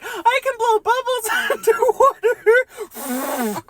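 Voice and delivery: put-on high, boastful little kid voice; proud kid. Timmy bragging to his dad, high kid voice. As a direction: brag like a small child. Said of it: "he's like".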